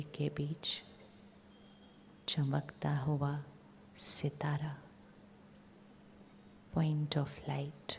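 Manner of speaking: calm, even voice with long pauses; guided meditation. Real, not acted. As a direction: guide their focus gently inward, phrase by phrase. Leads visualisation of inner light.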